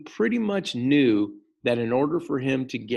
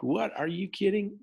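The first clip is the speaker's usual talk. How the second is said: mock outrage; 9 semitones higher than usual. Furious Americans reacting to news of the demand, mock outrage. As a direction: act out disbelief with the pitch jumping up. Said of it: "Americans were furious".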